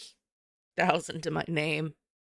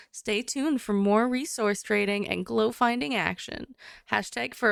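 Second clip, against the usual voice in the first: announcer voice, louder and dramatic; customer service voice; 3 semitones higher, 3 dB louder than usual. Shown as a demonstration. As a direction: read it like a movie trailer announcer. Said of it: "My customer service voice".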